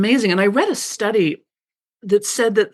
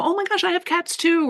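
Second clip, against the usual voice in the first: surprised delight; 10 semitones higher than usual. Retold or imitated. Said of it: "or you know".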